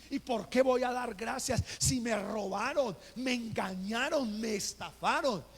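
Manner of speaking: indignant retold complaint; angry protest. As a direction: demand why, furious at being robbed. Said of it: "me enojé y dije".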